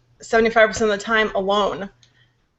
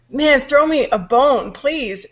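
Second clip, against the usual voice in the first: slower, higher exasperated plea; 4 semitones higher, slower than usual. Retold or imitated. Worn-out mom begging for a break, exasperated. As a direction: plead like you're fed up with bad luck.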